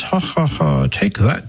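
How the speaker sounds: mock triumphant gloating. Priest imitating an overconfident believer taunting hell, mock gloating. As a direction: gloat in a hammed-up, pretend way.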